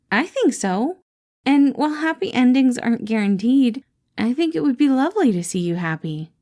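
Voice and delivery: bright caring boss checking in; Patton voiced. Boss greets his employee Remus, cheerful caring voice.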